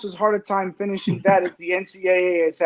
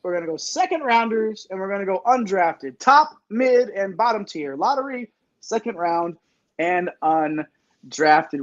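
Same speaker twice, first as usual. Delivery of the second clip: show announcer; 3 semitones higher than usual. Acted. Host unveiling the world famous tiers to the audience, announcer style. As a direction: hype it up, stretching the big words.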